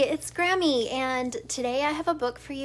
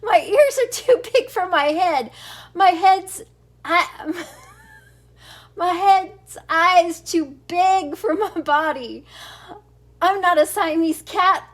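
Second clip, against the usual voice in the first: hammed-up Spanish accent, high and loud; mock Spanish accent; 4 semitones higher, 7 dB louder than usual. Grandma reading the kitten in a mock Spanish accent. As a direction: ham up a Spanish accent while laughing. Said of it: "I don't know how to do a Spanish accent".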